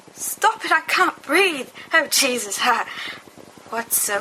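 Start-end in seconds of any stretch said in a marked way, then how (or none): 0.1-2.9 breathless laughter. Acted. Laughing fit, can't breathe.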